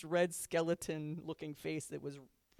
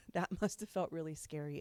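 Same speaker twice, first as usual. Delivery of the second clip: softer, tender, with a small laugh; a tender, softer take on the apology to the child; gentle apology; 7 dB quieter than usual. Shown as a demonstration. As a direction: soothe the child softly. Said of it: "Acknowledge the impact and say".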